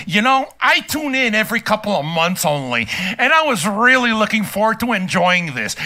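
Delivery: lightly voiced uptight complainer; mock a prissy, offended viewer; a hint of a clenched, stuck-up voice; mocking Phil Jackson. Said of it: "in my best fucking voice, let's see if I can make my ass clench".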